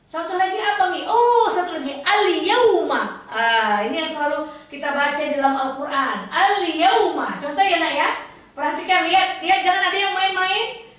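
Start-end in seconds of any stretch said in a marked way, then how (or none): 2.0-3.2 slow "al yauma", l sounded then a distinct ya; clear ya. Shown as a demonstration. Teacher offering another example, slow distinct "al yauma". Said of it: "Huruf ianya". 6.3-7.3 slow "Al yauma" with l and ya distinct; clear ya. Shown as a demonstration. Teacher reading from the Quran, slow clear "Al yauma". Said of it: "Huruf ianya".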